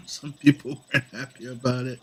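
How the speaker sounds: a small laugh leading into "Some"; chuckle, then qualify it with "Some"; amused correction. Real, not acted. Laughs, amends own remark with "Some.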